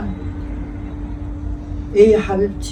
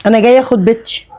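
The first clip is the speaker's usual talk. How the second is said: louder, insistent claim; firm demand; 5 dB louder than usual. Acted. Mother to the aunt, demanding her daughter back loudly. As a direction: stake your claim loudly.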